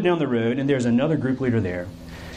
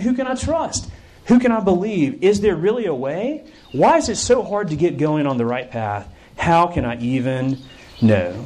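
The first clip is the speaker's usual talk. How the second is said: troubled, frustrated; 2 semitones higher than usual. Acted. Camper asking whom to trust, confused and frustrated. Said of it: "Imagine how confused and frustrated and troubled you'd be".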